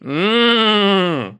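high, loud gurgled neigh through water; while gargling. Pretend. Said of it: "drink water and neigh at the same time".

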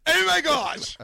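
put-on high, loud valley girl squeal. Shown as a demonstration. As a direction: shriek it like a thrilled valley girl. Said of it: "my Valley Girl talk".

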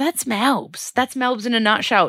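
sing-song catchphrase. Acted. Vlogger wrapping up her Melbourne update, sing-song catchphrase. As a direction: lilt it like a jingle, slowly at first.

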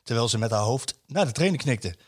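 storytelling read of a column; a host reading a newspaper piece to colleagues; reading aloud. Acted. Reads a written column aloud.

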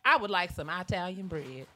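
grandma's long-I "Italian"; Italian as eye-talian. Retold or imitated. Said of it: "she's gonna say Italian bread".

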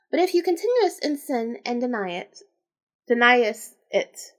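measured read-aloud delivery; story narration. A narrator's reading. Reader telling the tale of the queen, narrating. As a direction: read the old tale out evenly.

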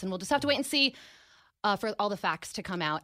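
breathless from running; out of breath. Real, not acted. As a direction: still panting while talking. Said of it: "I am still panting".

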